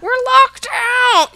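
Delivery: loud, slow shout down the stairs. Retold or imitated. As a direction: yell it down the stairwell to dad. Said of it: "I shout down the stairway to my dad".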